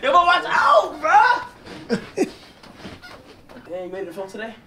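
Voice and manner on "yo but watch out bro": high, loud laughing warning. Real, not acted. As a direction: laugh while you warn him. Friends teasing, laughter.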